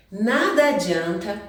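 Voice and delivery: ordinary talk, nothing marked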